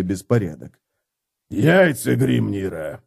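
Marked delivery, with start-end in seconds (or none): 1.5-3.0 breathed out. Acted. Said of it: "выдохнул он".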